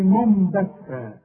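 منبتا with a clear meem, no hum; wrong pure meem. Shown as a demonstration. Teacher mimics another mistake, clear meem. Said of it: "أو تقول لي".

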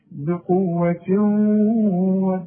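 slow, forceful بقوة with heavy qaf; strong articulation. Shown as a demonstration. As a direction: stretch and press out بقوة. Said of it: "انما اسمع ال-، النطق".

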